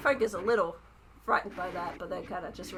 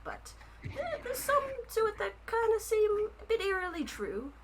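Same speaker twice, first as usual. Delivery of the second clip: rabbit folk author voice; 3 semitones higher than usual. Acted. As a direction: play the shy, flattered rabbit writer. Rabbit author chats about book.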